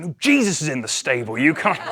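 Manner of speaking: laughing through the line; fighting back a giggle. A narrator's reading. Innkeeper joke, laughing.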